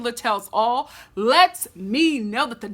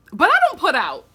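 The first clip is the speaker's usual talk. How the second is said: giggling through the joke; laughing aside; 5 semitones higher, 4 dB louder than usual. Real, not acted. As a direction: laugh it out, a bit higher. Joking about being bachelorette.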